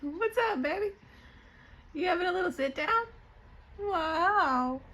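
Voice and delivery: high-pitched coo to a pet; cooing pet talk. Real, not acted.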